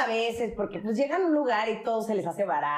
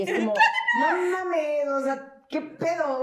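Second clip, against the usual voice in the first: higher, slow, laughing half-shout; laughing mock outrage; 5 semitones higher, slower than usual. Real, not acted. Friends teasing about accents, laughing outrage. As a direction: exaggerate the disbelief through laughter. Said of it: "laughing mock outrage".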